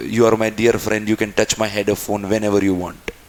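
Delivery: a slow, gentle hint of the roommate; French roommate. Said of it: "मुझे बोलता है कि".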